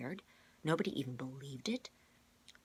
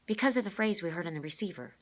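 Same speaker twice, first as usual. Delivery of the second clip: put-on higher, louder boy voice; Rainey's voice; 5 semitones higher, 7 dB louder than usual. Shown as a demonstration. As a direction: redo it as the boy. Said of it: "wrong voice, class".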